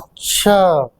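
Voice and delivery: teacher hearing a dubious excuse; doubtful acha. Shown as a demonstration. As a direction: say अच्छा as a sceptical oh really. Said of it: "sense अलग निकल रहा है".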